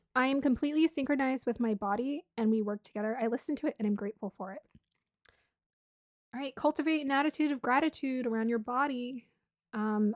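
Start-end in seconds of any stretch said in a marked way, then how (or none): none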